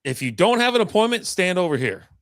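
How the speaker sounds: high, loud announcement to the crowd; calling out. Retold or imitated. DMV worker calling out to waiting crowd, loud announcement. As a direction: bark orders at the whole line.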